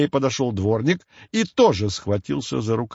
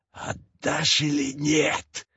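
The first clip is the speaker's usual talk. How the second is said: slow, softer, hissed witch's threat; spiteful hiss; 2 semitones higher, 4 dB quieter, much slower than usual. A narrator's reading. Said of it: "злобно зашипела она". (злобное шипение ведьмы)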